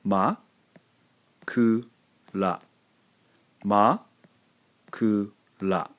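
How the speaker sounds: Makura with a silent beat between ma and ku; small tsu pause. Shown as a demonstration. Teacher demonstrating the small tsu in Makura. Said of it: "Let me pronounce it for you".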